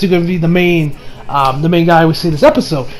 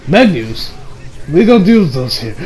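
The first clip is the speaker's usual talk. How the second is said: lower, imitated Italian chef; Italian accent; 3 semitones lower than usual. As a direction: turn them down in an Italian accent. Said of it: "I'm going to talk with an Italian accent".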